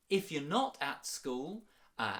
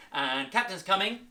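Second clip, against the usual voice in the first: called out; 7 semitones higher, 8 dB louder than usual. Shown as a demonstration. Leading the Captain's coming game.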